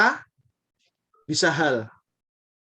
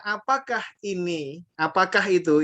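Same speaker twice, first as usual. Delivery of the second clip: quoting a question; 3 semitones higher than usual. Retold or imitated. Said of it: "Orang Arab kalau mau tanya".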